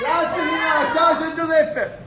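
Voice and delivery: bright, high-pitched farewells; high cheerful goodbye. Real, not acted.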